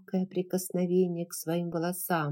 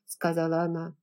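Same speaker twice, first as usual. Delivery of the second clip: usual speaking voice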